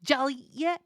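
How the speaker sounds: "Jolly, yeah" rising high on "yeah"; slurred "Jolly, yeah" lifted at the end like a question; question intonation. Shown as a demonstration. Teacher replays the question for its first sound, "Jolly, yeah" rising. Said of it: "now we know it's a question".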